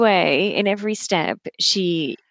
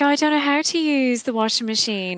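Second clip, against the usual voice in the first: mock helpless; 5 semitones higher than usual. Mocking a helpless boyfriend.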